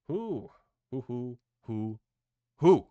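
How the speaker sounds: high, drawn-out run of whoos; excited whoos. Real, not acted. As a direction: let the hype out in bright hoots. Letting out excitement over the win.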